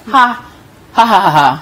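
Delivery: spelled-out mock laugh, syllable by syllable; read-out laugh. Host reading a social media comment aloud, mock laugh. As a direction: voice the written ha-ha as it sounds in your head. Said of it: "that's how you hear it in your head".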